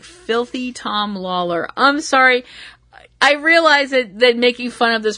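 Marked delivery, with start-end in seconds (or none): 0.0-1.7 "Filthy Tom Lawler" said slowly and flatly, softer, in disbelief; deadpan repeat. Retold or imitated. Vlogger repeating the silly name to herself, deadpan and slow. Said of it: "I'm like".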